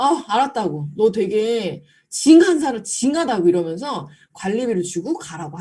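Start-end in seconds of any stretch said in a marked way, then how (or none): 0.0-3.5 laughing exasperation. Retold or imitated. Customer gives in laughing.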